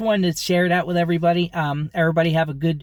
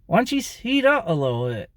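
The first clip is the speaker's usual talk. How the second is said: higher, muffled ventriloquist nagging; without moving lips; 4 semitones higher than usual. Shown as a demonstration. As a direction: nag through still lips, pitch raised. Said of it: "without moving my lips".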